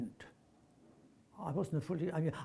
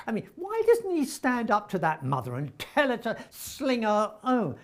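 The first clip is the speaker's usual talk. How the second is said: higher, louder, exasperated mini-rant; retold exasperation; 5 semitones higher, 4 dB louder than usual. Actor ranting to director about a namby-pamby character, retold exasperation. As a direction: build up an indignant retold complaint.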